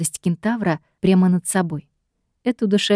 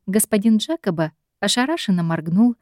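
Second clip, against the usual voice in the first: ordinary delivery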